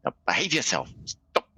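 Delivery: mild mock scolding; telling off. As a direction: play at scolding a naughty child. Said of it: "tries to tell off".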